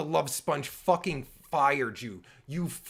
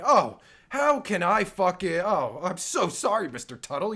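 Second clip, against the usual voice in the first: mock apology; 4 dB louder than usual. Mock apology to walking-out host.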